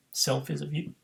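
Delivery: hiccup breaking the words. Real, not acted. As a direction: talk through a hiccup. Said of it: "Hiccuping, burping".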